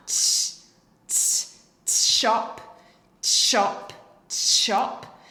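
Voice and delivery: loud whispered "t" and "shop" repeated; t and shop drill. Shown as a demonstration. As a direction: drill "t" and "shop" closer each time. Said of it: "if I say it fast enough".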